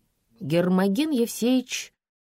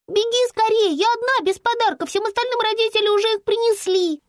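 put-on high, louder child's urgent voice; anxious little girl; 5 dB louder than usual. Girl begging Lampa to hurry with a high urgent child's voice. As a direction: sound like a scared little girl left alone.

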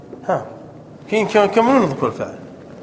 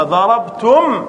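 ضربتم then ضربتموه said slowly, syllables spread; walk through ضربتموه slowly; slow worked examples; much slower than usual. Shown as a demonstration. Teacher building the form step by step, slow spelling-out. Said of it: "فالواو هذه للإشباع".

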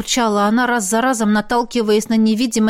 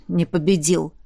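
hoarse; 4 semitones lower than usual. A narrator's reading. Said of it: "хрипло сказал он".

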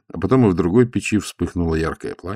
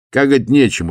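громкий высокий удивлённый вопрос; вскинься от удивления, громко; удивлённо; 7 semitones higher, 6 dB louder than usual. A narrator's reading. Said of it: "удивился монах". (монах удивляется истопнику, громко и высоко)

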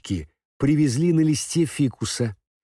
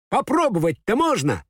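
Totoshka voice; 11 semitones higher than usual. Acted. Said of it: "сказал Татошка".

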